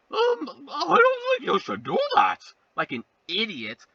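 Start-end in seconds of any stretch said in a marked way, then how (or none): 0.1-2.4 squeaky mocking imitation of Alex; whiny high mock voice. Mocking the dad's timid warning, high and whiny. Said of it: "Alex is all like".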